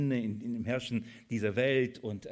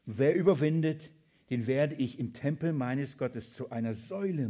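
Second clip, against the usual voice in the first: emphatic, raised-voice Bible reading; scripture reading; 3 semitones higher, 4 dB louder than usual. Acted. Preacher reading Christ's promise to the congregation, emphatic scripture reading. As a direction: read the promise out with preaching force.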